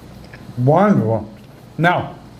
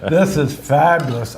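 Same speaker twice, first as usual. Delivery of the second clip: laughing. Real, not acted. Laughing at faking-it joke.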